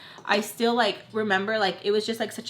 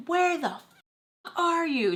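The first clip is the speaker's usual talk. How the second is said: livid mom; 9 semitones higher than usual. Retold or imitated. Mom calls her late at night, livid. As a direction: imitate a livid mom's high yelp. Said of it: "She is so livid".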